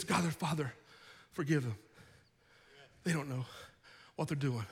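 low, softened prayer with long pauses; hushed plea. Acted. Jesus on the cross praying for his killers, hushed plea. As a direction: drop right down, phrase by phrase.

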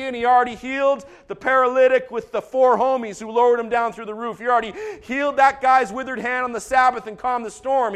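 breathless rapid-fire list; preacher's relentless run-through. Real, not acted. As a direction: rattle off the list with driving energy. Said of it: "Rapid fire now".

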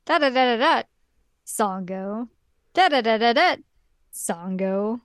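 making fun of the dub's pacing; mocking the dub's pauses. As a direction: parody the dub's awkward pauses before "Sango". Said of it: "people saying Sango in this episode".

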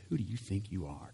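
soft, mocking sneer at the question; scoffing challenge to Jesus; with attitude. Shown as a demonstration. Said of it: "kind of an attitude".

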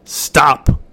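put-on harsh whispered warning from old crone. A narrator's reading. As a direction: stop it in a hoarse hush. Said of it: "warned the old crone".

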